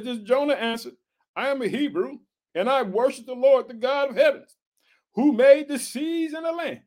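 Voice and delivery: measured, emphatic Bible reading; scripture reading. Acted. Preacher reading Jonah's flight to the congregation, declaimed scripture. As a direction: read the verse out deliberately.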